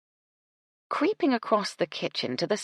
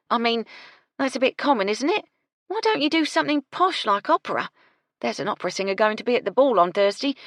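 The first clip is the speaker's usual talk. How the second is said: louder, higher, pushy; scornful cook; 8 semitones higher, 5 dB louder than usual. Acted. Gertie pushes Doris towards opera, loud and brisk. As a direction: talk her out of it.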